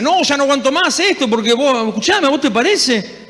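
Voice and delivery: retold outburst of a fed-up husband; exasperated friend. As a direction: play the friend at the end of his rope. Friend venting about marriage, retold.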